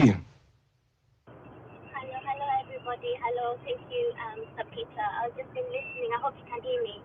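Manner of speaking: distant, thin mic sound; bluetooth headset mic. Real, not acted. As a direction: heard from afar over Bluetooth. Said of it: "I think you're on Bluetooth or something".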